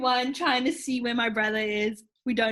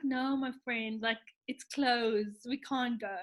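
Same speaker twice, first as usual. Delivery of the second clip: mild defeat; 5 dB quieter, slower than usual. Retold or imitated. Defeated, telling brother it's closed.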